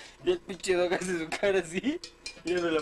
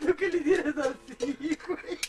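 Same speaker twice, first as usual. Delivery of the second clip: laughing; 5 semitones higher than usual. Real, not acted. Talking through laughter.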